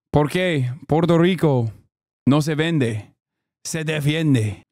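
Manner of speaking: careful Spanish accent, phrase by phrase; attempted Spanish accent. Shown as a demonstration. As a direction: try it in a measured Spanish accent. Retrying the Spanish line.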